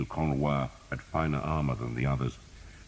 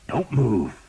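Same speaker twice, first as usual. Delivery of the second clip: firm order; 8 semitones higher, 6 dB louder than usual. A narrator's reading. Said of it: "Thomas said".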